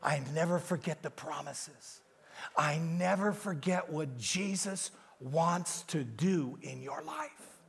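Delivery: Holy Spirit softly reassuring Gary; tender whisper. Retold or imitated. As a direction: speak it gently as the Holy Spirit. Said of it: "He said".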